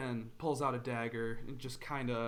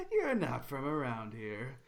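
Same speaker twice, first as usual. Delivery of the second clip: scoffing bandit. Acted.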